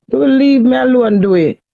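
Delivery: loud, desperate plea to her husband; loud pleading. Real, not acted. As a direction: push it out loud, begging him to stop.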